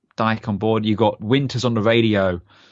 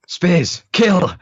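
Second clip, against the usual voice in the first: mock command; 8 semitones higher, 6 dB louder than usual. Sink unleashing Spears.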